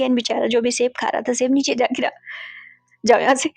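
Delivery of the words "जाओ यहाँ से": louder, flustered get-out; embarrassed loud brush-off; flustered shooing. Acted. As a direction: shoo the boy away, louder. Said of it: "उसे फिर से भगाना चाहा".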